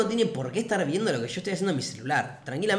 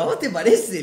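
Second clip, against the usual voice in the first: mocking, teasing voice; 3 semitones higher, 7 dB louder than usual. Traveler to the couple accusing him, mocking teasing voice. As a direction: tease them as if it's absurd. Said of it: "con esta voz bien descansera".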